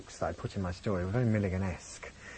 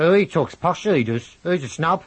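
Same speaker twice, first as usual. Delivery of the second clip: mocking Brummie schoolkids, loud and higher; Birmingham accent; 7 semitones higher, 9 dB louder than usual. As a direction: imitate Birmingham schoolmates jeering. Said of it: "they all said".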